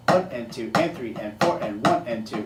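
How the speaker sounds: low steady count over the playing; counting along. Shown as a demonstration. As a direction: count beats aloud in time. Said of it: "just the basic sticking".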